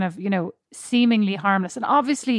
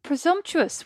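slow, much higher, scandalised; drawn-out mock outrage; indignant; 10 semitones higher, slower than usual. Real, not acted. Friend reacting to a stranger's advice, slow and indignant.

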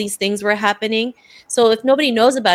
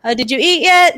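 higher-pitched imitation of a Filipino auntie fussing over you; doting tita voice; 9 semitones higher, 5 dB louder than usual. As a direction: channel the tita who always asks if you ate. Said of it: "And she'd be like".

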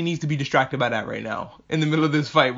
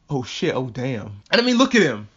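mock smitten; 3 semitones lower than usual. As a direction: drag it out, low, as if smitten. Imagined smitten princess reacting.

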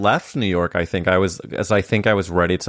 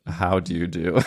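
1 British greeting; 3 dB quieter than usual. Shown as a demonstration. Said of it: "instead of".

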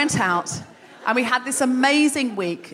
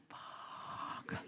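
drawn-out voiceless curse; inward panic; 24 dB quieter than usual. Retold or imitated. Caught without an elder's name, whispered inward curse. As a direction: breathe the swear out, barely audible.

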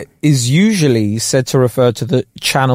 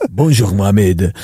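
deep voice; 5 semitones lower than usual. Retold or imitated. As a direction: lower mock schoolboy greeting. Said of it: "Why is his voice so deep".

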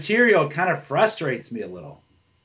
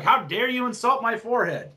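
higher, hammed-up offended tone; mock indignant; 5 semitones higher than usual. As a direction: play fake outrage over a forehead. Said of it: "I ain't gonna be mad, like".

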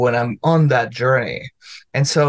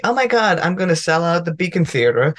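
mock giddy ambition; 2 semitones higher than usual. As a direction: gush over selling out the venue. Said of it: "it's not gonna be".

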